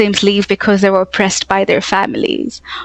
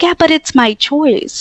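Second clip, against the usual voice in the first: higher and slow, a pointed mock retort; defiant reply; 7 semitones higher than usual. Imitated woman answering the enforcers, higher and slow. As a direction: lift the voice and drag out a stubborn answer. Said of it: "So then you can go like".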